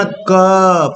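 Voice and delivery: क drawn out with the throat fully open. Shown as a demonstration. Teacher showing the right sound, wide-open throaty क. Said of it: "पूरा गला खुलना चाहिए".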